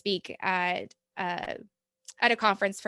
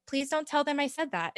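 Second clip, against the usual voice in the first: higher, half-laughing confidential plea; mock sheepish plea; 7 semitones higher, 3 dB quieter than usual. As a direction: play a parent asking to keep a secret, amused. Parents' sheepish plea, acted out.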